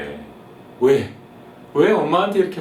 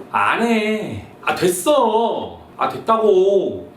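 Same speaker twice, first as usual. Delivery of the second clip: irritated son; 6 semitones higher, 4 dB louder, much slower than usual. Acted. Annoyed son snapping at mom.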